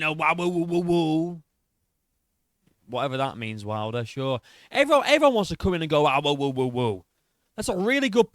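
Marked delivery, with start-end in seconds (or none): 0.0-1.4 mock crowd wooing. Reactor mimicking what everyone comes in saying, mock wooing. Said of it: "Everyone coming". 4.7-7.0 mock it with silly woo noises; exaggerated mockery. Reactor parroting Wilder's complaint about everyone, mocking.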